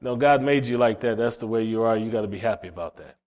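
lightly voiced devil, dropping low. Preacher mimics the devil talking someone out of deliverance, lightly voiced. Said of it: "The devil says".

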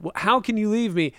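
lightly acted disbelief; mock incredulous. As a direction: imitate an inconsolable bandmate. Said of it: "Kyle, incredulous, inconsolable".

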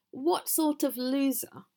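troll jeering at the goat from his bridge; shouty jeer. A narrator's reading. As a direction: jeer it out in capital letters. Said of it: "his best shouty all capital letters voice".

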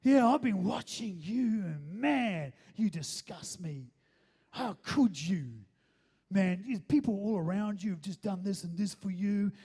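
acted-out scolding with heavy, punched stresses; imitating judgmental confessor. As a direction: lay on the judgment, word by heavy word. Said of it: "waiting for all this judgment".

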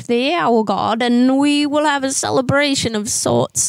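lightly voiced old lady with a hint of English accent. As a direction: play a fussy old neighbor lady on a prank call. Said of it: "when I talk like an old lady".

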